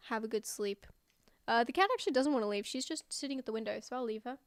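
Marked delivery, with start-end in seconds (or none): 0.1-0.9 soft unvoiced whisper of have a good sleep; hushed goodnight whisper. Real, not acted. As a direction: whisper it like tucking someone in. Saying goodnight to chat.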